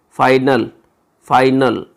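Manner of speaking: फाइनल said clearly with an "eye" vowel; teacher repeating फाइनल; careful repetition. Shown as a demonstration. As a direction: repeat the word slowly for learners. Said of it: "वो आई की आ रही है".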